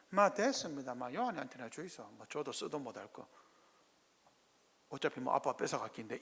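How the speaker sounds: put-on a child refusing in Gyeongsang dialect; mildly sulky Gyeongsang dialect. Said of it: "경상도 말로".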